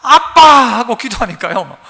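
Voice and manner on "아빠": tender prayerful call. Retold or imitated. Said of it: "기도하면서요".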